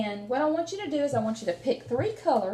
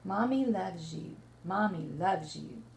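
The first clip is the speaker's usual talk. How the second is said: tender mommy voice; 6 semitones lower, 5 dB quieter than usual. Acted. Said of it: "kinda talk like his mommy might talk".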